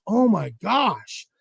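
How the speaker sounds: slow, drawn-out disbelief; stunned reaction. Retold or imitated. Storyteller sees the bent rod, slowly stunned. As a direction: stretch it out, taken aback.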